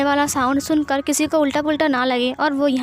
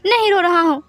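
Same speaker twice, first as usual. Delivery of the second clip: much higher and louder, fast, near hysterical; shouted crying denial; 4 semitones higher, 4 dB louder than usual. Acted. Wing yelling at Wangji that he isn't crying, shouted sob. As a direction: scream the denial through sobs.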